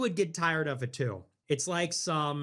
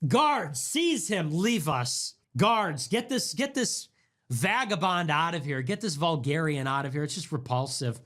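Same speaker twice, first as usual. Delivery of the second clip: snooty aristocrat. Acted. Rich aristocrat ordering guards.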